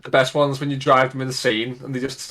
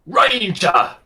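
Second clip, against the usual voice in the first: snarling orc shout, higher and louder; 8 semitones higher, 5 dB louder than usual. Retold or imitated. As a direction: call out like a vengeful orc. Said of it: "cool, like, voice lines for it".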